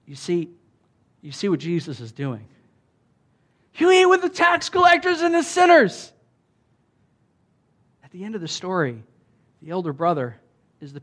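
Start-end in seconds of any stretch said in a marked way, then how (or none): 3.7-6.1 high, loud mocking accusation; sneering accuser. Churchy critics accusing Jesus, in a high, loud, sneering voice. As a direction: sneer it like a self-righteous critic.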